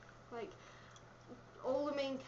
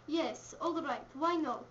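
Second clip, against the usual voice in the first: attempted Russian accent; slower than usual. Two friends trying accents on a script, Russian accent. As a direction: answer in a put-on Russian accent. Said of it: "We'll both try a Russian accent".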